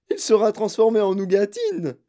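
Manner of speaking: plus aigu et fort; hurlé. Acted. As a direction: hurler. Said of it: "hurla madame Gloop". (Mme Gloop hurle à Wonka)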